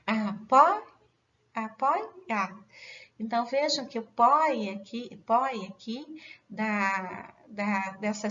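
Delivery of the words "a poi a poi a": "A, poi" with a loud stressed "poi"; syllable by syllable. Shown as a demonstration. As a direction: chop "a, poi, a" into separate syllables for the class. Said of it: "porque ela é tônica". ("a, poi, a" em sílabas separadas, "poi" tônico)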